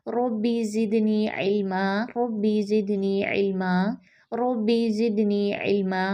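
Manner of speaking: slow, devout prayer chant; measured supplication; dua recitation. Real, not acted.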